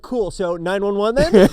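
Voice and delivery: high, loud, laughing sarcasm; laughing mock quip. Friend joking about the crash, laughing and high. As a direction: toss it off laughing. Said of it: "You're like".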